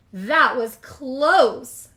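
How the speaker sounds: breathy, slow relief after a close call; drawn-out relieved sigh of words; relieved whisper-thought. A narrator's reading. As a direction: say it like you barely escaped. Beatrice relieved after near fall.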